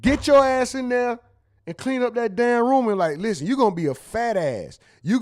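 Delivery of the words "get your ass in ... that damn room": a touch of a strict father laying down the law; stern parent order. Retold or imitated. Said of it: "I'm like".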